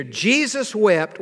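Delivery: "Jesus wept" said slowly and deliberately; slow emphatic. Shown as a demonstration. Preacher to church, restating the verse slowly. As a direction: lean on "Jesus wept", unhurried. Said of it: "this is what we see here".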